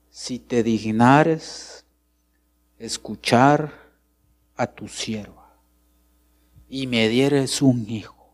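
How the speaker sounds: lenta y pausada, como rezando; oración suplicante. Retold or imitated. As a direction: suplica despacio al Señor como Ana. Ana ora suplicando. (Ana ora por un hijo, lenta y suplicante)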